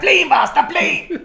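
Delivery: little voice, very high and loud; Tattoo. Acted. Co-host doing Fantasy Island on request, high little voice. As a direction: squeal it excitedly in a tiny voice. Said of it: "do your little voice again".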